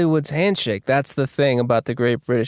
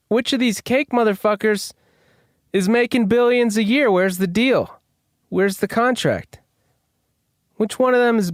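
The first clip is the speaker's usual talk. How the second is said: mock outrage; 4 semitones higher than usual.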